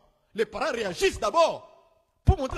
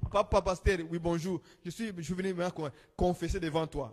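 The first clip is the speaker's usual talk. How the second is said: voicing the sister; 5 semitones lower, 4 dB quieter than usual. Sister confessing, voiced by preacher.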